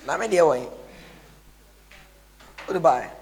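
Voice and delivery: high, loud mimicking voice; high put-on voice. Imitated person, high voice.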